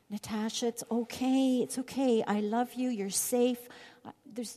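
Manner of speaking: gentle reassuring mother; comforting a child. Retold or imitated. Mother calming scared daughter Natasha, gently. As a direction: soothe a frightened little girl. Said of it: "and I would say".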